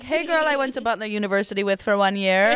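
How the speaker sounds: overly sweet, laughing gush; mock gush through laughter. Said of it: "I'm like".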